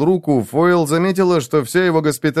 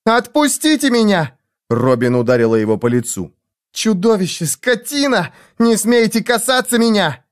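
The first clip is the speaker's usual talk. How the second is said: outraged cry; 7 semitones higher than usual. A narrator's reading. Robin slaps Foyle.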